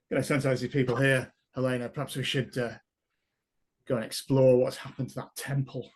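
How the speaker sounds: booming, echoing voice meant as a whisper; magically amplified voice. Acted. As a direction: boom it out while trying to whisper. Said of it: "in my booming voice".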